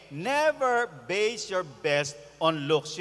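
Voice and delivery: each word slowly, low; slow, weighty. Shown as a demonstration. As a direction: drive the key point home slowly. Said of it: "sermon key point". (dahan-dahan at may diin)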